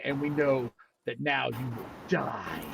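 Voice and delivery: slow menacing promise; menacing drow. Acted. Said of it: "and they say".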